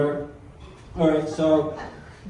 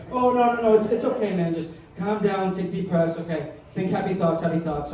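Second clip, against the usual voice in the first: calm, soothing friend. Retold or imitated. Friend calming a panicking caller, mild soothing. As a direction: talk a buddy down, easing off gradually. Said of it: "He sounded so happy and calm".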